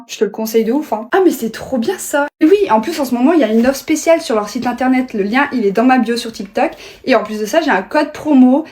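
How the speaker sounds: loud, upbeat sponsored pitch; ad read. Acted. Two friends acting out a book advert, ad read. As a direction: sell the product with eager energy.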